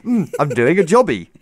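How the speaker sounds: light, jokey Scottish quip; playful put-on Scots; mock Scottish accent. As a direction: toss it off as a Scottish catchphrase. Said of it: "Scottish people are renowned for just saying".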